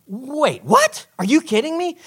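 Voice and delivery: acted high-pitched incredulity; shocked disbelief. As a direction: voice leaping high on "what". Acts his shocked younger self.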